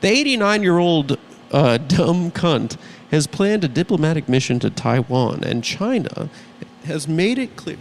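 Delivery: measured satirical news read; mock news monologue. Host opens the show with the day's news, mock anchor read.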